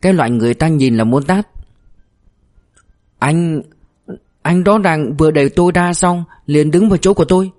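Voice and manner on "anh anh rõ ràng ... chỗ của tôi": put-on high-pitched, indignant country accent; rural-accent scolding. A narrator's reading. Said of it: "dùng khẩu âm ở quê mắng". (giọng quê cãi lại)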